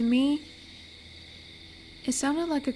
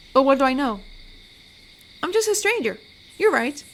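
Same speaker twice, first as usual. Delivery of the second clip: flustered backtracking; 2 semitones higher, 4 dB louder than usual. Acted. Wolf apologising to dumped siren for tactless remark, flustered.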